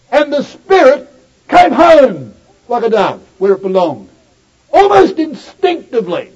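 preaching at full force. Acted. Preacher rousing brothers and sisters about the spotless man, with full force. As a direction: lift the congregation with rising fervour. Sermon climax about the baptism.

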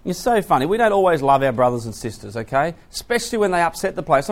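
usual speaking voice

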